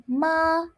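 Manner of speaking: Ma held high and level; first tone. Shown as a demonstration. Teacher showing first tone, mother. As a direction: keep Ma flat and high. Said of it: "the first tone".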